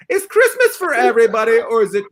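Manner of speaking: high, loud game-show host call; announcer hype. Acted. Game show host announcing the big question, loud and high. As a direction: pump up the crowd with the question.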